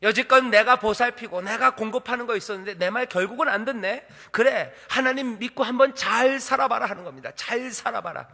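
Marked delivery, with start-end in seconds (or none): 0.0-6.9 high, bitter-sounding threat; threatening. Acted. Balak casting off Balaam, high threatening rebuke. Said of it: "협박입니다". 7.3-8.3 mildly acted menacing send-off; veiled threat. Balak parting from Balaam, mock threatening. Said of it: "협박입니다".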